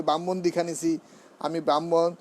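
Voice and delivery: ব্রাহ্মণ said "bamon", no r and no h; common mispronunciation. Retold or imitated. Teacher imitating devotees who claim initiation, sloppy "bamon". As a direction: flatten ব্রাহ্মণ to a careless "bamon". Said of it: "বলে ফেলি".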